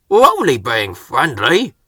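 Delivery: a hint of an offended Salty; indignant. Salty protesting to Murdoch, lightly indignant. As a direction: protest with wounded pride. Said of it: "steamed Salty".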